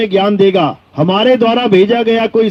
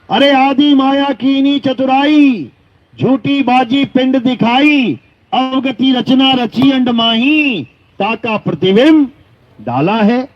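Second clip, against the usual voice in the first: measured, ringing scriptural recital; verse recitation; 3 semitones higher, slower than usual. Acted. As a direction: intone each line of the hymn, drawing it out.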